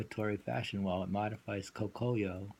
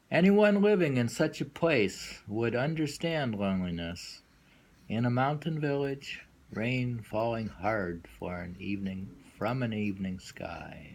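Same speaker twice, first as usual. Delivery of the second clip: measured, deliberate poem recital; poem reading. Acted. Reading a translated mountain poem to his listener, in a measured recital voice.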